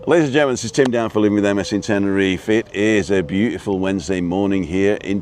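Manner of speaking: fast, upbeat show opener; quick bright vlog introduction; presenter intro. Acted. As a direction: announce it like a TV host. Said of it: "do an action replay".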